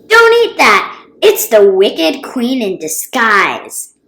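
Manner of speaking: high, loud warning cry, slowing on the second line; alarmed shout. Acted. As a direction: yell to stop them eating. Shaylee warns bodyguards about poisoned snack.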